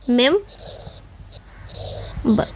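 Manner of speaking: मेम, long pause, then बर; syllable by syllable. Shown as a demonstration. Teacher splitting remember while writing, मेम and बर said apart. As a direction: dictate मेम and बर as separate syllables. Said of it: "उसके बाद".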